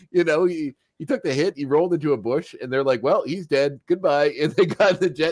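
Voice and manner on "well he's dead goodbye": lightly mocking, raised write-off; mock breezy dismissal. Host imitates X-Men leaving Morph behind, mildly flippant dismissal. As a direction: toss it off as a careless farewell.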